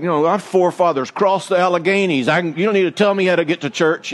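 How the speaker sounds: hammed-up indignant speech, a touch fast; mock pompous. Husband to wife, mock grandiose indignation. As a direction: puff up like a wounded pioneer. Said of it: "we're like".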